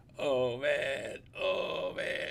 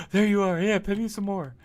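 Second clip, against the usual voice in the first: high, loud, excited puppy greeting; playful dog voice; 9 semitones higher, 6 dB louder than usual. Pretend. Owner voicing the zoomy dog greeting, high and excited. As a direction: squeal it as the dog finding you again. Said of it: "kinda like".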